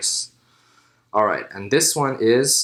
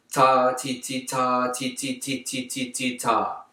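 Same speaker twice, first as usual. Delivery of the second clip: quiet growing to normal voice; soft to regular; 3 dB quieter, slower than usual. Shown as a demonstration. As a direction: move from piano to mezzo piano. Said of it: "from piano to mezzo piano".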